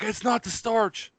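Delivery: very high and slow, a frightened plea; telling himself the starch isn't burning, high and panicked; retold panic. Slow, high-pitched panic. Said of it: "So I'm freaking out".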